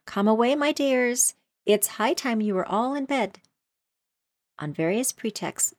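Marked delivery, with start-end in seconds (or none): 0.0-3.4 high, loud and anxious; trembling. Acted. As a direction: hurry children away nervously. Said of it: "in a trembling voice".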